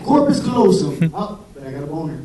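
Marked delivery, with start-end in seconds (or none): 0.0-1.1 eager blurt. Retold or imitated. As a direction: snap out "corpus callosum" like an exam answer. Exam answer blurted.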